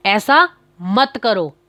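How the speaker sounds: मत given weight, said slowly; slow, firm ऐसा मत करो; stress on मत. Shown as a demonstration. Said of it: "मत मतलब जोर किस पे दिया गया".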